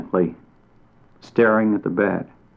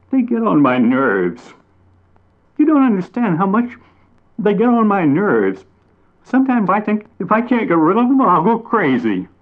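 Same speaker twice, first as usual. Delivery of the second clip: higher and louder, fast frustrated rant; exasperated rant; 11 semitones higher, 4 dB louder than usual. A narrator's reading. Mockingbird venting to bat and chipmunk, exasperated and loud. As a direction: vent your frustration.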